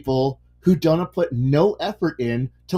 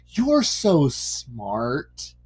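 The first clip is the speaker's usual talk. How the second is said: mock flattering AI; 3 semitones lower, much slower than usual. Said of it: "the A I is just going".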